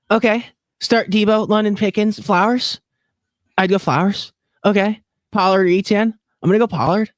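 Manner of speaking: TikToker fantasy voice. Retold or imitated. Mocking other TikTokers to his cohost, lightly hammed fantasy host voice. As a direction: lightly imitate a bland TikTok fantasy analyst. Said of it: "the TikToker fantasy football voice, where they always talk like this".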